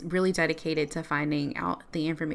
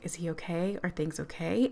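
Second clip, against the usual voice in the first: retold worry; 4 semitones lower, 8 dB quieter than usual. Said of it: "I'm like".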